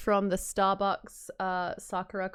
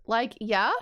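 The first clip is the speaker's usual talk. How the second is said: lightly voiced Valley Girl; a hint of questioning Valley Girl. Witness answers in court, light Valley Girl voice. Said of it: "Are we gonna do the Valley Girl voice".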